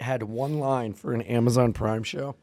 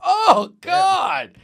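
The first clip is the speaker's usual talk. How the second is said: panicked high; 7 dB louder than usual. Retold or imitated. Retold panic.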